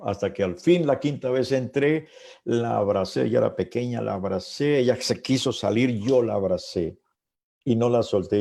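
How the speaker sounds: fervent preaching, climbing to the hug; rising fervor. Real, not acted. Preacher to congregation, retelling the hug with rising fervor. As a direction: build it up as the testimony peaks.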